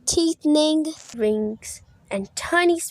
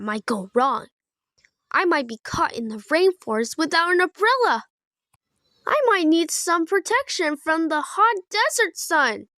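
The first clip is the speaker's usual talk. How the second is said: a little higher, fretful frog; lightly voiced baby Kermit; 5 semitones higher than usual. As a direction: list worries like an anxious child. Kermit answers the voice.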